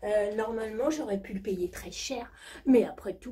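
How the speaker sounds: high, breathy posh diva voice; hammed-up high society diva; rich diva character. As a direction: play a spoiled jet-set lady bragging. Same diva character continues.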